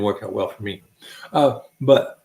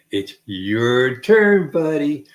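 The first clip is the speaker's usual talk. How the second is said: drawn-out summons; 4 dB louder, much slower than usual. Retold or imitated. Acts out calling him up.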